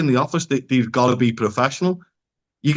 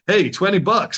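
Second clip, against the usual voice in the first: mock American twang, pitched up; imitated American accent; 5 semitones higher than usual. Mimicking English people in America, mock American accent. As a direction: put on an American accent, higher. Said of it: "they'd speak like".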